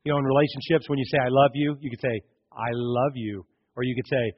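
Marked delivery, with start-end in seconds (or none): 2.5-3.5 sincere. Shown as a demonstration. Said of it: "you gotta understand the tone".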